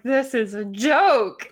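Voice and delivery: slow, laughing disbelief. Retold or imitated. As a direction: laugh the words out slowly. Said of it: "I was like".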